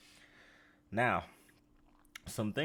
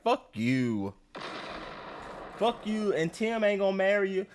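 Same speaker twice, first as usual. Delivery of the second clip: angry cursing; 9 semitones higher, 3 dB louder than usual. Real, not acted. Cursing out contestant.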